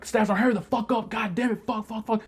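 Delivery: high-pitched retold cursing outburst; mock frantic swearing, high but not truly shouted; losing it. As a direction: act out losing your composure, pitch shooting up. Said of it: "then I just lose Baron".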